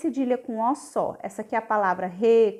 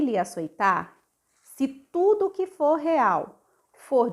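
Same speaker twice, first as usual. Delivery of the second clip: poem reading. Shown as a demonstration. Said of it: "Eu vou ler o poema".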